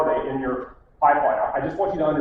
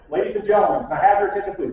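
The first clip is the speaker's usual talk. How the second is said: mock showroom announcement, a bit louder; announcer call; 4 semitones higher, 5 dB louder, faster than usual. Salesman retelling his gong ritual, announcing to the showroom. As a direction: call the room to attention like an emcee. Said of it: "and I did".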